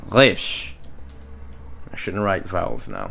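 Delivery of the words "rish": Rish with a throaty Hebrew r, like "khrish"; rolled Hebrew r. Shown as a demonstration. Teacher modelling the dagesh syllable Rish. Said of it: "It's da".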